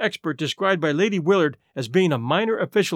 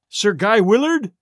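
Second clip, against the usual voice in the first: slow alarmed cry, a touch louder; alarmed cry of a worried friend; cried out; 3 semitones higher, 4 dB louder, slower than usual. A narrator's reading. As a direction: call out the name in sudden alarm. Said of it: "I cried".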